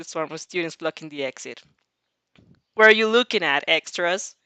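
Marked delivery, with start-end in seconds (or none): 2.7-4.3 loud snarling challenge; angry. Acted. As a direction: bark at the crowd. Bakugo snarls at crowd.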